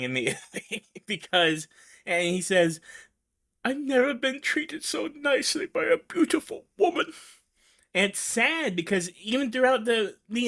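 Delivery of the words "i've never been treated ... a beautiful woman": much higher, strained and otherworldly; high, fragile, pleading Merrick impression; John Merrick voice. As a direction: play the Elephant Man, voice pitched way up. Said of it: "I'm sorry to do this voice".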